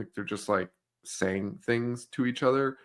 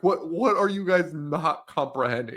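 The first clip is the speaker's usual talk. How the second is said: higher-pitched mock exasperation; upset, exasperated; 4 semitones higher than usual. Cop to uncomprehending teens, upset and exasperated. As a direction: act out a cop losing patience. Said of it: "so upset, and he's like".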